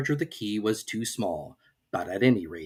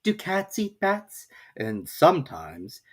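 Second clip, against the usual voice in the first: put-on slow, drowsy higher girl's voice; sleepy Alice; 11 semitones higher, slower than usual. A narrator's reading. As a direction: let it drift as she dozes off. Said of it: "began to get rather sleepy".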